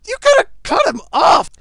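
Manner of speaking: high, loud urgent shout; real excited, insistent yell. Real, not acted. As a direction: yell instructions at a teammate. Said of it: "my yelling and stuff".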